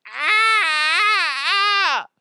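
high, loud, slow whine of pain; whimpering man hurting; mock moaning patient. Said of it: "he's just like".

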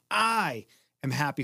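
stretched "I" to open the affirmation; emphasis on each word. Shown as a demonstration. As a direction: lean on the word "I", then carry on. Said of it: "we go through each word".

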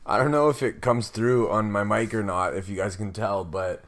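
hoarse, worn-out voice; raspy whisper. Real, not acted. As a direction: talk through a voice that's nearly gone. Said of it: "I have no voice left".

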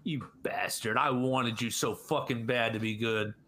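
understated heartbroken grudge; bitter jilted lover. Pretend. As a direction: mutter it like a scorned lover. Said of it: "That's what he sounded like, was a jilted lover".

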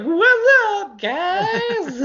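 nervous squeak to a wall of cops; squeaky greeting. Retold or imitated. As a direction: squeak it out like a scared kid facing riot police. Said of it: "I just squeak out this".

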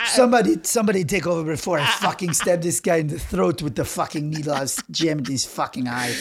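lightly voiced ranting tattooist; mock exasperated rant to a colleague; fed-up tattoo artist. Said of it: "he goes".

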